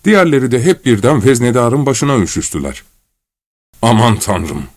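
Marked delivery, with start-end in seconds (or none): 3.8-4.6 subdued, mildly moaned exclamation; moaning. Acted. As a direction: moan it in dismay. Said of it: "diye inledi".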